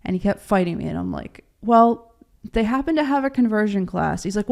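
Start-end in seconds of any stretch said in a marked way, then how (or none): 1.6-4.2 pointed retort. Retold or imitated. Wife arguing back with husband.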